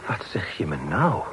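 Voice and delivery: a hushed, disbelieving whisper; stunned whisper. Acted. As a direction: breathe it out in shock, slowly. Shocked at the poet's connection.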